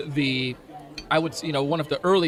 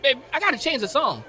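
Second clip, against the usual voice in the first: much higher, hyped soul singer showman; 11 semitones higher than usual. Acted. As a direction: shout it out like a soul star on stage. Soul singer voice introducing Aisha.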